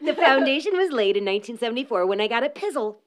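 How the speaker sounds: reading it again through a laugh. Shown as a demonstration. Rereading the founder's words to friends, laughing. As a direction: chuckle the line out.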